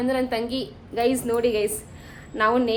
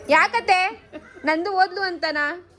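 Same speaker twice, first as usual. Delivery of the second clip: higher, drawn-out consoling questions; coaxing concern; 5 semitones higher, slower than usual. Real, not acted. Asking a tearful aunt about Nandu leaving, coaxing concern. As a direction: gently probe with a raised, stretched voice.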